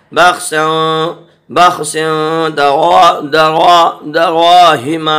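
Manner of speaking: دراہم with a thick, rounded, stretched "raa"; heavy "ra". Shown as a demonstration. Teacher showing that ra is read thick, heavy "ra". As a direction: make the r in دراہم full and bold. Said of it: "را موٹا ہوتا ہے".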